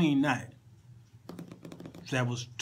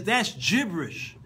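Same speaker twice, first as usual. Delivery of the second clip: higher, punchy mock verdict; acted disdain; 5 semitones higher, slower than usual. Latino guitar player judging the song, acted disdain. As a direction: imitate a blunt dismissal, pitched up. Acts guitarist rejecting the lyrics.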